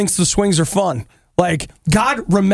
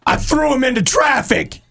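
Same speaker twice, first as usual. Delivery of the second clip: mock catastrophizing; 6 semitones higher than usual. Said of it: "Right, like".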